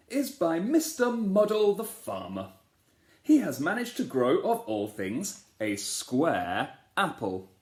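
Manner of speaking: a king announcing a winner to the crowd; king's announcement. Acted. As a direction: build up to the square apple.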